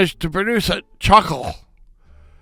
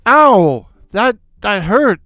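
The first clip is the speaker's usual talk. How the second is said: mock cry of pain; 4 semitones higher, 3 dB louder than usual. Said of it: "I cried".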